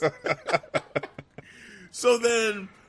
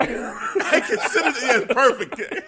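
laughing; 6 semitones higher, slower than usual. Real, not acted. Laughing while quoting Roman.

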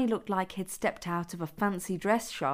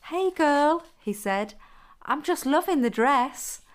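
sounding like a woman; 8 semitones higher, 5 dB louder than usual. Acted. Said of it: "tried hard to sound like a woman".

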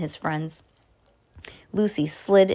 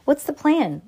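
urgent cry; 8 semitones higher, 3 dB louder than usual. Acted. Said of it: "Sam cried".

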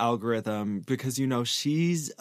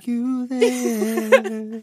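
pirate voice; 11 semitones higher, 6 dB louder, much slower than usual. Acted. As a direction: drag it out like a pirate. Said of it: "you sounded like a pirate".

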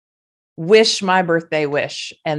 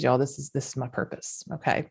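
emotional. Real, not acted. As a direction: hold back tears, pleading gently. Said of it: "I'm gonna get emotional".

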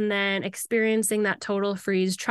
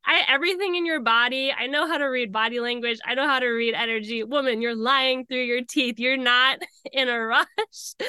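confrontational; 4 semitones higher than usual. Retold or imitated. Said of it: "I was ready to fight this woman".

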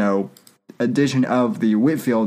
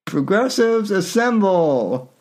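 rallying battle cry; 4 semitones higher than usual. Acted. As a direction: summon the troops grandly. Pelosi calls her army.

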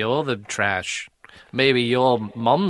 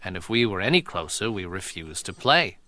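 impression of a singer; 3 semitones lower, 4 dB quieter than usual. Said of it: "It's a singer walking into the studio".

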